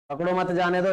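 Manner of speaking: "पकड़ो मत जाने दो" run straight through; no break anywhere in "पकड़ो मत जाने दो"; no comma pause. Shown as a demonstration. Teacher showing the meaningless sentence, running it together. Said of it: "इसका कोई मीनिंग नहीं निकल रहा".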